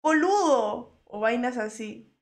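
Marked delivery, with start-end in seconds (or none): 0.0-1.0 imitated Argentine drawn-out last vowel; light mock Argentine accent. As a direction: quote an Argentine streamer, stretching the word. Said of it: "porque ella dice mucho".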